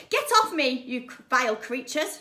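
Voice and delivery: loud, high scream to be let go. Acted. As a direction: shriek at the cats to get off. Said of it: "she screamed".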